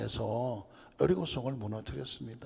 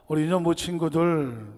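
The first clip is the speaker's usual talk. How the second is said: put-on bright call to the children, louder; calling out to kids; 3 semitones higher, 5 dB louder than usual. Elder calling to the children, louder call. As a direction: hail the kids like a Sunday school teacher.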